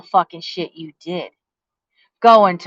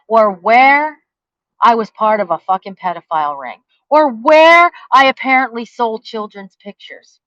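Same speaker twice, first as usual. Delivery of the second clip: furious listing; 4 semitones higher, 5 dB louder than usual. Real, not acted. Listing false accusations, furious.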